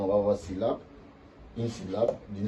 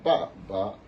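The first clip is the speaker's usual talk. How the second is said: first ba falling, second ba rising; ba ba, falling then rising; second tone on second syllable; 3 dB louder than usual. Shown as a demonstration. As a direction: drop the first "ba", lift the second "ba". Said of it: "Ça, ça va donner".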